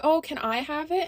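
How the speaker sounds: slow, pleading mock-child pout; pouting kid. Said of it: "She starts pouting".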